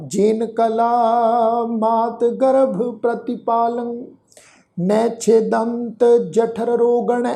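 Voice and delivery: slow, measured reading of sacred verse; scripture recitation. Acted. The teacher recites the verse for the sangat, slow and devout. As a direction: intone each word slowly and with devotion.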